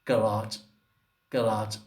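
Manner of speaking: garage said Arab style, ending in T; Arabic accent. Retold or imitated. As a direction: imitate an Arab saying garage. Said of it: "Arabs say garage".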